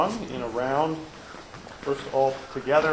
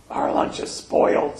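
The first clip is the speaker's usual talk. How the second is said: dejected Toad. Acted. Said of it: "said Toad".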